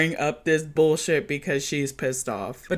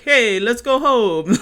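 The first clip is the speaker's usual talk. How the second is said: mock pickup line; 7 semitones higher, 7 dB louder, slower than usual. Mocking guy picking up girls.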